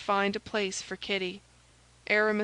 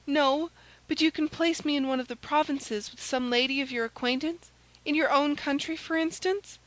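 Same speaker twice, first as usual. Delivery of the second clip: higher maid's voice, coaxing; hopeful maid Kitty; 6 semitones higher than usual. A narrator's reading. Maid asking the chevalier for a place, hopeful. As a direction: suggest it eagerly in a high voice.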